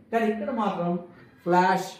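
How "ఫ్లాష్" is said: ఫ్లాష్ with sh as one blended sound; one digraph sound. Shown as a demonstration. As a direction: end ఫ్లాష్ on a single firm 'sh'. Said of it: "ఒక్కటే sound వచ్చింది".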